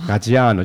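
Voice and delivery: "Gaggiano" with the "a" after "ggi" stretched; "Gaggiano" said Italian-style, middle vowel drawn out; Italian pronunciation. Shown as a demonstration. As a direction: linger on the stressed "a" of "Gaggiano". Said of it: "好像要稍微拉一下".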